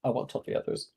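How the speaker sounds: soft conspiratorial whisper. Acted. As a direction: whisper it like a secret. Shopkeeper whispers a secret aside.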